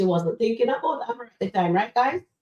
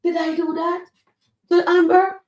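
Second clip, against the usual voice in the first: hammed-up realisation, much higher and louder toward a shout; over-the-top horrified gasp, climbing to a cry; mock-horrified Shayla; 11 semitones higher, 5 dB louder than usual. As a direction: ham up Shayla finally seeing what she did. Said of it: "and then she gonna say".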